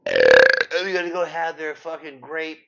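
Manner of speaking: high, slow, loud sneer; high-pitched, slow mocking shout; mocking yell. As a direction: blast the mockery at full volume. Mocking repeat, peak loudness.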